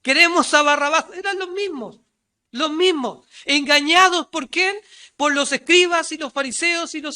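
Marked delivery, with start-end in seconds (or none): 0.0-1.0 crowd shouting. Retold or imitated. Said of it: "habían gritado".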